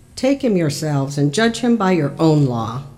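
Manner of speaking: usual speaking voice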